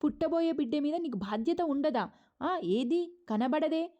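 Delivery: shouting at him. Retold or imitated. Mother shouting at her son about the baby, loudly. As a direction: yell it at your son, dragging it out. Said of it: "చాలా గట్టిగా అరుస్తుందన్నమాట".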